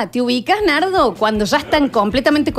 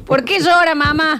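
high put-on child voice; a five-year-old's innocent question; little daughter; 5 semitones higher, slower than usual. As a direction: play a puzzled little girl. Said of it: "Lola tiene cinco años. Es nuestra hija".

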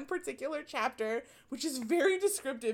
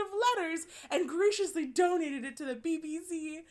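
higher, mock-British narrator; playful BBC parody in a British accent; 5 semitones higher than usual. Narrator thanking the donor of letters, British accent. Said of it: "in, like, a very British accent".

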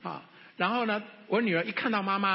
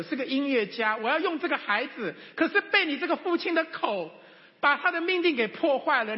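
voice of God rebuking; 7 semitones higher than usual. Acted. God telling the father he wounded his daughter, stern and raised. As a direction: speak as God confronting him.

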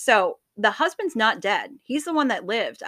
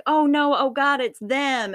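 mock panicked cry, raised but short of a scream; half-screamed retold alarm; retold freak-out scream; 4 semitones higher, 5 dB louder than usual. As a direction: imitate someone freaking out. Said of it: "starts freaking out and, like, screaming".

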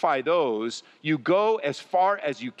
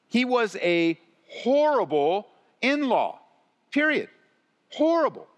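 rising condemnation; 6 semitones higher than usual. Real, not acted. Preacher condemning Laban as an in-law, building to an emphatic cry. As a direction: build to a fierce peak on horrible.

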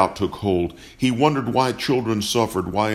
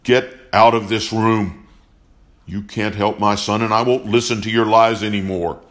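rage; 4 dB louder than usual. Acted. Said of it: "Johnson's rage".

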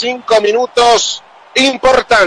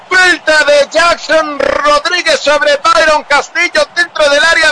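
shouted call; 4 semitones higher, slower than usual. Real, not acted. Commentator calls the foul.

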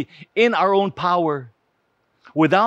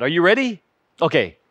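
ordinary talk, nothing marked

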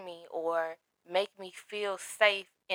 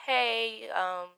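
nonchalant doctor; 3 semitones higher than usual. Retold or imitated. Doctor phoning late with lab results, nonchalant. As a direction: mimic the doctor's casual, no-build-up delivery. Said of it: "this is how she's saying it".

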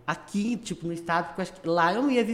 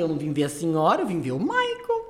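cheeky retort; 3 semitones lower than usual. Retold or imitated. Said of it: "Eu falei".

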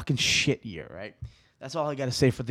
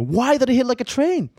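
voicing a puzzled viewer, pitched higher; higher, mock puzzled viewer voice; mock viewer question; 10 semitones higher, 3 dB louder than usual. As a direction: ask it as a confused listener, higher up. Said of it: "You're probably wondering, like".

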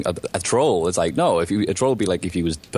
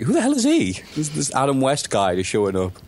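high, hammed-up outraged voice; mock indignant wrestler; 7 semitones higher than usual. Imagined wrestler seeing him show up, high mock outrage. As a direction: play a baffled, offended wrestler. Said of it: "I'd be like".

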